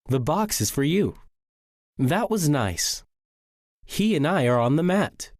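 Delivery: statements dropping on "you", "nice", "mat"; falling intonation. Shown as a demonstration. Teacher reading example statements, falling intonation. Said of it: "Sentences that end in a period also end with falling intonation".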